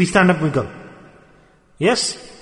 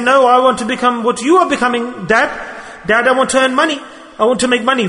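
lightly voiced child, higher pitch; child imitation; 5 semitones higher than usual. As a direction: answer back like a child imitating dad. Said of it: "The children are watching that my father's mad".

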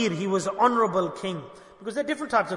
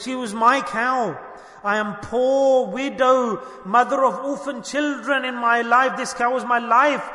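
raised, higher voice of grievance, no real tears; acted-out anguished complaint; retold distressed cry; 3 semitones higher, 4 dB louder than usual. Poor widow accusing the king over her cow, mildly anguished cry. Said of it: "started to cry and shriek sadly".

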